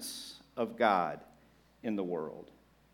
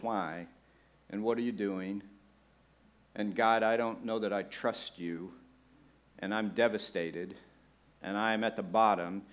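devastated believer; 5 semitones lower, 5 dB quieter than usual. Retold or imitated. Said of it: "this other frame of thinking about our spiritual journey".

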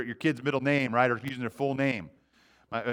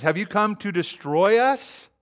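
alarmed demon; 6 semitones higher, 4 dB louder, slower than usual. Acted. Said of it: "he says".

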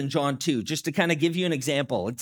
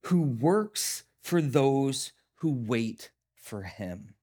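scripture reading; slower than usual. Acted. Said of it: "verse four says".

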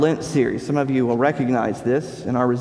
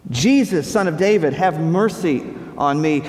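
calling out louder, pleading. Retold or imitated. Blind man calls louder to Jesus for mercy, calling out. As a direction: cry out to Jesus with more force. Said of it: "saying it louder and louder".

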